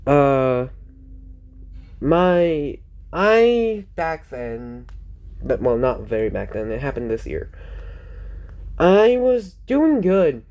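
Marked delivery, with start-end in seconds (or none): 2.0-10.4 slow, halting restart with stretched words; deliberately slowing down. Real, not acted. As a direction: take your time, drawing words out. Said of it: "Let me slow down".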